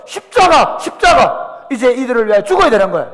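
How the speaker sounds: loud, high, shouted resolve; fervent cry. Acted. Jesus facing the cross, fervent shout.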